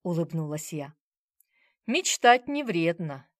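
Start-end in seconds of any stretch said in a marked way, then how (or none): 1.9-3.3 sighing. A narrator's reading. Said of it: "вздохнул Киря".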